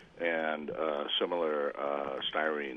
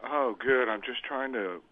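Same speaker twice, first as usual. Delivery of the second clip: sultry voice; 3 semitones higher than usual. Acted. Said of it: "trying to use a sultry voice".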